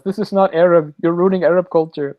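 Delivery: mock Middle Eastern accent; lightly put-on Middle Eastern accent; fake Middle Eastern accent. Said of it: "puts on this fake, like, Middle Eastern accent".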